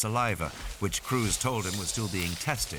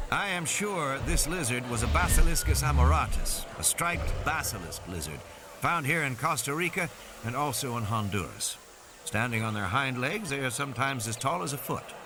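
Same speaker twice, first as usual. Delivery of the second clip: higher, confident expert explanation; a hint of an assured field biologist; lightly voiced biologist; 5 semitones higher than usual. Biologist identifying lizard for parents, lightly voiced biologist.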